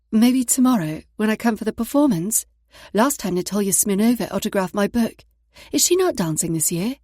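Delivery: put-on bubbly, loud British accent; chirpy fan in a British accent. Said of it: "using her best British accent".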